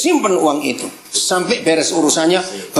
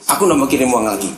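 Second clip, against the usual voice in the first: firm; 7 semitones lower, faster than usual. Retold or imitated.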